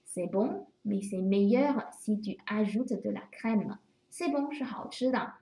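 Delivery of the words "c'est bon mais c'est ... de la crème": slow, careful French read aloud; teacher's slow model sentence. Shown as a demonstration. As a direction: read it slowly for the class. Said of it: "比如说".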